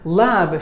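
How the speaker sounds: "Lab" stressed on its own; stressed syllable. Shown as a demonstration. Teacher showing which syllable takes stress, "Lab" emphasised. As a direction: lean on "Lab" as the strong syllable. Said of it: "should be given more volume".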